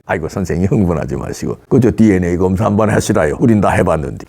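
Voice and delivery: put-on low, calm North Korean agent's accent, unruffled; lightly imitated North Korean dialect, smug. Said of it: "사투리가 잘 안 되네".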